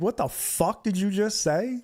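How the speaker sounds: high, incredulous, not shouted; retold indignant challenge. Standing up to the mouthy fan, retold indignation. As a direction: throw the challenge back, re-enacted. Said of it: "I was so mad".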